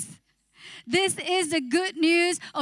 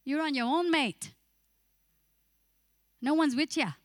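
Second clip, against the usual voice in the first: lightly attempted Australian accent; a hint of Australian twang; preacher tries an Australian accent on the congregation; Aussie accent. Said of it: "Do I sound Aussie?".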